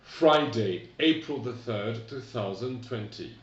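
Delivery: "Friday, April the third" said loud, with a still British accent; American date said with a British accent. Shown as a demonstration. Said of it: "Mon accent reste quand même très britannique".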